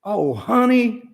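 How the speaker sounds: fond playful oh honey; light and fond. Shown as a demonstration. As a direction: coo it with amused affection. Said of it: "to add a little levity".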